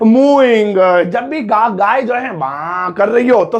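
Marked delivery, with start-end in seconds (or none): 0.1-1.0 mooing said alone, louder, stretched; stressed repeat. Shown as a demonstration. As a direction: punch the word mooing. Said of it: "बोलते हैं mooing". (mooing पर ज़ोर)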